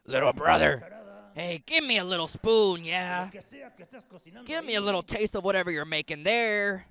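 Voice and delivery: loud, guttural caveman Esau. Acted. Hungry Esau demanding stew from his little brother, loud guttural caveman voice. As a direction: bellow it like a starving caveman. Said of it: "with his guttural and caveman voice".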